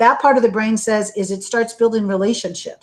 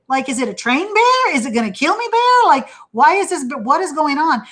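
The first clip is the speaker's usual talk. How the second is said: higher, hammed-up alarmed questions; mock panic; 6 semitones higher than usual. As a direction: act out startled panic at a bear. Bear in a tutu walks in.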